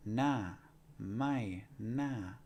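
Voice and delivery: Thai "Na, mai, na" with falling tones; each syllable drops in pitch. Shown as a demonstration.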